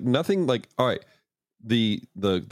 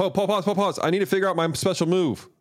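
mock fighter pausing; 9 semitones higher than usual. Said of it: "I've half expected them to go".

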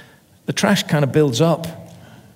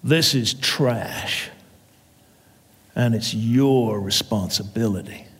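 stern landlord; 4 semitones lower, 4 dB quieter, slower than usual. Acted. Landlord lecturing tenant slowly.

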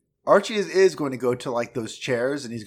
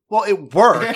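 laughing; 7 semitones higher, 9 dB louder, slower than usual. Retold or imitated. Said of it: "Shane's like".

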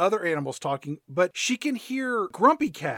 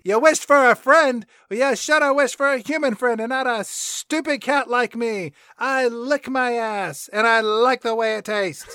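sneering cat; 4 semitones higher, 5 dB louder than usual. Retold or imitated. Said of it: "Grumpy Cat insults Crystal".

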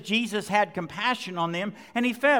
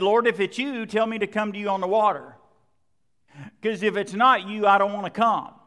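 pleading Peter; 4 dB louder than usual. Retold or imitated. Peter voiced pleading fearfully.

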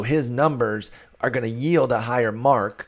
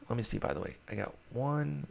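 ordinary talk, nothing marked

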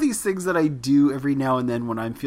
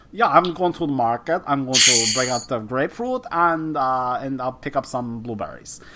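put-on Martin Short accent. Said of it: "sometimes I'll be like".

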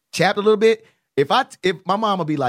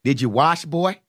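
imitated grandmother; 2 semitones lower, slower than usual. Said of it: "my grandmother would be like".

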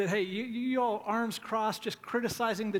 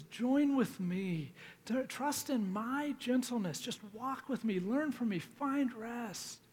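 gentle pleading; 3 semitones higher, slower than usual. Retold or imitated. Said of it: "he's pleading with them".

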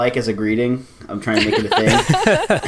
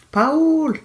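calling out. Real, not acted. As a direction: call his name across the room. Calling out to absent caller.

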